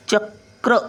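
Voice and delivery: चक्र split, quick k closing चक before र; quick k first. Shown as a demonstration. Teacher showing letter order, चक्र with k before r. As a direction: cut चक short, then sound क्र. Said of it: "कचा उच्चार पटकन आहे, पहिला येतो".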